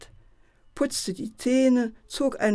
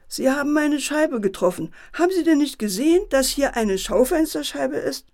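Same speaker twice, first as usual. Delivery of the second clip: high, raised, outraged protest; indignant shouting; 6 semitones higher, 5 dB louder than usual. A narrator's reading. Barber confronting the man about his window, indignant shout. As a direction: call out, speeding up into a reproach. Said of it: "der Friseur rief auch".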